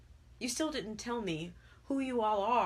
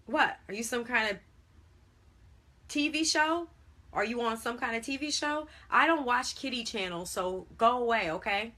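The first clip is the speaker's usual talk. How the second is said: exasperated, high and loud; loud, irritated tirade; beside himself with irritation; 5 semitones higher, 6 dB louder than usual. A narrator's reading. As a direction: rant at a kid you want gone. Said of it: "Henny was beside himself in irritation".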